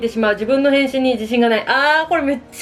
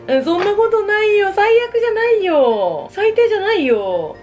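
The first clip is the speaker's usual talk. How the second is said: reassuring; 8 semitones higher, slower than usual. Real, not acted. Comforting a self-critical listener.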